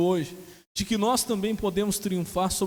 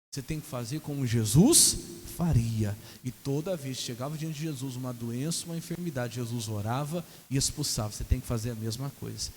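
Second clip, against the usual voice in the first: ordinary delivery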